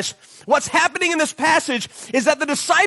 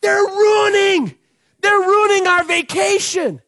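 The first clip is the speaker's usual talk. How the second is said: whiny complaint; 7 semitones higher, slower than usual. Pretend. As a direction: complain like a cheated kid. Disciples complaining.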